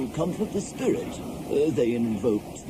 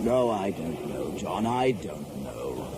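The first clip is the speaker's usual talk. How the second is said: bewildered resignation; 8 semitones lower, slower than usual. Acted. Overwhelmed, cannot accept the explanation.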